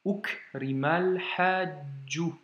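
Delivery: Ukrimal hajju slow, l running into hajju; slow Arabic liaison demo; linked reading. Shown as a demonstration. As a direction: glide straight from Ukrimal into hajju. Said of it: "on fait la liaison".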